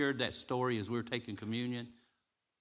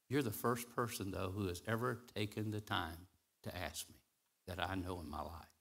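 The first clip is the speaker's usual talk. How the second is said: low, very soft quote; hushed retold reply; 3 semitones lower, 5 dB quieter than usual. Tour guide answering the woman who asked, hushed and low. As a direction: drop down low and quiet, letting it sink.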